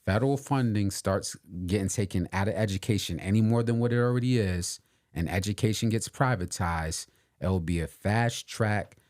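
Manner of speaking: slowly and deliberately, with pauses; deliberate restatement. Real, not acted. Podcast host restating his warning about education for emphasis, slowly. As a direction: spell out the warning in measured phrases. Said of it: "I'ma say that slowly again".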